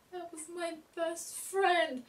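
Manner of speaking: put-on small, high little-boy voice, drawn out; imitated seven-year-old boy. Vlogger mimicking Ducky learning his best friend died, little-boy voice. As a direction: play a hurt little kid, high and slow. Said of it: "this seven-year-old boy".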